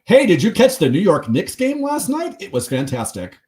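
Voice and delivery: high, loud hammed-up American accent; put-on American accent. Podcast host spoofing British actors playing New Yorkers, hammed-up American accent. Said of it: "doing her American accent".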